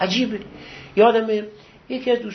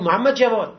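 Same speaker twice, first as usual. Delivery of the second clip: mild imitated call, a bit louder; 2 semitones higher, 5 dB louder than usual. Teacher calling his son to fetch books, mildly raised voice. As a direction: call the name as the teacher did. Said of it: "با صدا فرمود".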